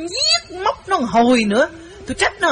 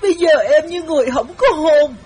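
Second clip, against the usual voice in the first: crying harder, higher pitched plea; imitating heavy crying; 5 semitones higher than usual. Wife acting out the girl sobbing harder, crying. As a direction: wail through the words like a heartbroken girl. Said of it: "nó khóc dữ hơn nữa".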